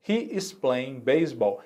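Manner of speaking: He is playing baseball, slow and careful with every word clear; slow model sentence. Shown as a demonstration. Teacher repeating the example for students, slow and careful. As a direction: spell it out slowly for learners. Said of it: "Olhando aqui nesse nosso exemplo".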